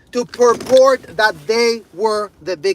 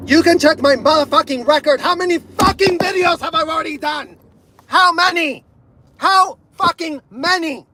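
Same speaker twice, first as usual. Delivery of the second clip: high, angry yelling; furious shout; 4 semitones higher than usual. Real, not acted. Creator yelling at critics about his videos, furious.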